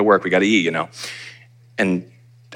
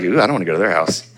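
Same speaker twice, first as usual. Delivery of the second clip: put-on kid voice; 4 semitones higher than usual. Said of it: "and you're like".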